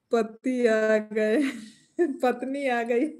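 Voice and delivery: drawn-out words broken by laughter; laughing. Real, not acted. Joking with viewers about husband and wife arriving, laughing. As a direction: say it slowly through real laughter. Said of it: "क्यों इतना हंस रही हो".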